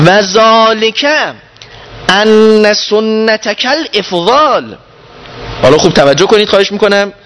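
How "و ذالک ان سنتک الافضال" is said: each Arabic word drawn out slowly; slow emphatic recitation. Shown as a demonstration. Teacher slowing the Arabic for his class, drawn out. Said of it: "اینجا رو گوش کنید".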